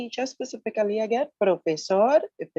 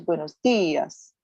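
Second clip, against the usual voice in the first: dias stressed on the I, DI-as; much slower than usual. Shown as a demonstration. Teacher explaining the accent to a student, dias stressed DI-as. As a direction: lean on the first syllable of dias. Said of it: "because there's an accent over the I".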